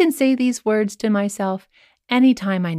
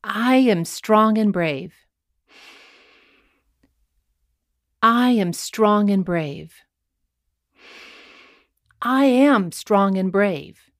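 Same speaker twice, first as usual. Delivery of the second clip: slow affirmation; slower than usual. Shown as a demonstration. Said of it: "We'll say it three times".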